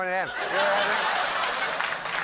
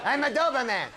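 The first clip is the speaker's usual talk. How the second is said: washed-up Doberman; 9 semitones higher, faster than usual. Acted. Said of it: "park bench with a Frisbee".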